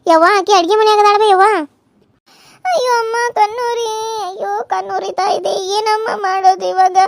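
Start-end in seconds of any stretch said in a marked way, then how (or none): 2.6-7.0 soft teary moaning, slowing down; acted crying. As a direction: whimper the pain quietly. Wife crying, eyes burning. (ಮೆಲ್ಲಗೆ ನರಳುತ್ತ ಅಳುವ ಧ್ವನಿ)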